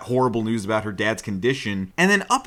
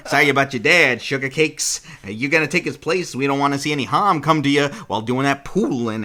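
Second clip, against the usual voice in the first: Ginji's voice. Acted. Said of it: "That's Ginji's voice now".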